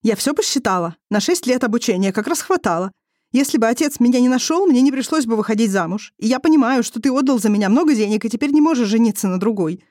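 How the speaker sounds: put-on high, heated young woman's accusation; a young wife accusing her husband, voice high and heated; wife's bitter outburst. A narrator's reading. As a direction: hurl it back at him with bitter sarcasm.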